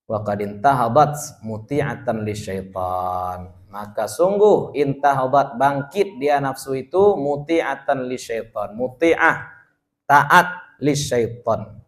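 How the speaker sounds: slow, deliberate reading of the Arabic; kitab recitation. Acted. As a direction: read the phrase out word by word for students. Teacher reads Arabic text slowly.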